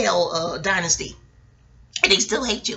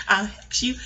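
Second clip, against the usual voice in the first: laughing hex; 3 semitones lower, 4 dB quieter than usual. Pretend.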